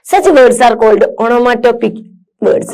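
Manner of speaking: slow, careful read-aloud for students; measured classroom reading. Acted. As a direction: read each word out slowly and clearly. Reads definition aloud.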